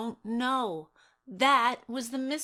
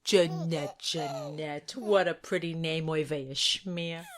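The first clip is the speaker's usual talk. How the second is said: Jewish mother voice; 3 semitones lower than usual. Acted.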